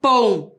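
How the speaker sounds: "Apontador" in four pieces, a-pon-ta-dor, long pauses between; counting syllables aloud. Shown as a demonstration. Teacher asking children to count along, "Apontador" syllable by syllable. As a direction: count out "Apontador" one isolated syllable at a time. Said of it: "Contem comigo".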